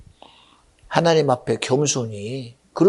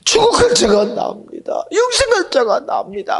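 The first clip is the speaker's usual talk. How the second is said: high, loud tearful cry; weeping, high-pitched proclamation; 12 semitones higher, 4 dB louder than usual. Retold or imitated. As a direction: break into tears of joy. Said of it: "울었는지 몰라요".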